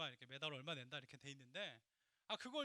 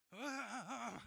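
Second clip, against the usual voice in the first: sputtering engine noise, higher; imitated car coughing; 5 semitones higher, 5 dB louder than usual. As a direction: imitate a car struggling to start. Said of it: "헛기침을 많이 해요". (시동 안 걸리는 차 흉내)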